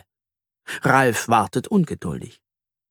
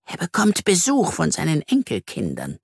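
pitched up, a touch peeved; slightly irritated; 5 semitones higher than usual. Acted. Spider resumes after the interruption, slightly irritated. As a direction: carry on, mildly annoyed. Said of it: "fährt sie etwas gereizt fort".

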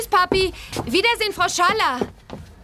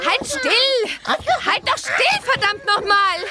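impatient; 4 semitones higher, slower than usual. Acted. Dressing a squirming baby.

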